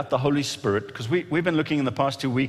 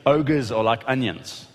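Shrek quote; slower than usual. Retold or imitated. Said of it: "remember the movie Shrek?".

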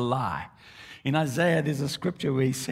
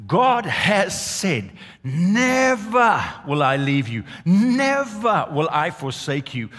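slow, loud, ringing proclamation; preaching at full force; 3 semitones higher, 4 dB louder, much slower than usual. Acted. Preacher proclaiming God's promise to the congregation, slow and loud. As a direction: hammer each "never" slowly and loudly.

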